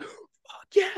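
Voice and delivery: very high mock victory shriek; retold triumphant scream. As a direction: re-enact squealing in celebration, not at full volume. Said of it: "I'm screaming on the".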